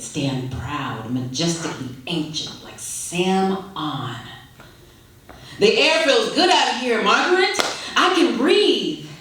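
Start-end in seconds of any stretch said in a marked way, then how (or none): 5.6-9.1 lightly voiced elderly dad; old father's voice. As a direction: savour the fresh air as an old father. Old father speaking outdoors.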